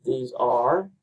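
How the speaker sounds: "These are" set apart, ARE stressed and rising; iambic stress. Shown as a demonstration. Teacher showing the second iamb, stress on ARE. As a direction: lean on "are" after a lighter "These". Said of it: "second I am".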